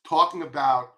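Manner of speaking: a slip of Long Island vowels in talking; the word talking with a broad Long Island aw; Long Island accent. Real, not acted. Market commentator slips into his Long Island accent. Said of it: "that's my Long Island accent that just broke through".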